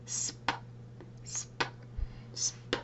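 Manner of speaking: sp said as a crisp whispered sound, clearly; modelled sound. Shown as a demonstration. Teacher modelling the blend for a child, crisp. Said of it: "Listen to Miss Audrey".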